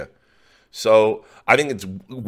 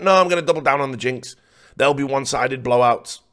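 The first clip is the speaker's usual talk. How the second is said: quoting Moses; 5 semitones higher than usual. Retold or imitated. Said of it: "He went".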